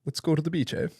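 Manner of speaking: high-pitched stab at a Canadian accent; attempted Canadian accent. Shown as a demonstration. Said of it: "Do you have a good Canadian accent?".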